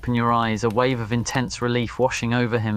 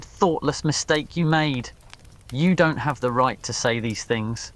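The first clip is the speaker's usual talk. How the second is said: sharp conviction; 4 semitones higher than usual. Acted. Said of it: "his voice sharp with conviction".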